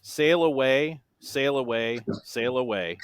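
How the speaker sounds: repeated lyric spoken evenly, stepping down; deadpan monotone. Shown as a demonstration. Quizmaster reads a repeated chorus for players, in a monotone. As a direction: recite it without any tune. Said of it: "said in my best monotone voice".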